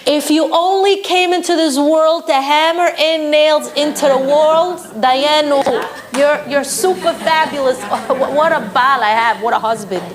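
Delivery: wife gushing over her husband's nail; mock gushing praise. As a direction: lay the flattery on thick. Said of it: "You have to tell him".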